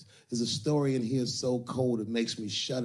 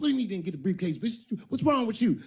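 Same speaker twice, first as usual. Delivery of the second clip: high, louder mock yell; pimp yelling; 10 semitones higher, 3 dB louder, faster than usual. Iceberg Slim yelling at her about the briefcase, a mock yell. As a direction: snap at her in disbelief. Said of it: "He said".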